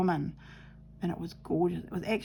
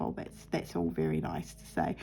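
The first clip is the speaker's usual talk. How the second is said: imitating dry teacher; 5 dB quieter than usual. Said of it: "And he was like".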